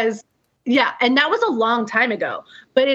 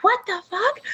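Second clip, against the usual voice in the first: retold scream; 10 semitones higher, 3 dB quieter than usual. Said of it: "And I'm screaming".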